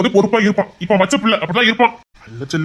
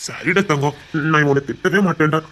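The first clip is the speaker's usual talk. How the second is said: tender soothing; 5 semitones lower than usual. Acted. Consoling the crying younger one.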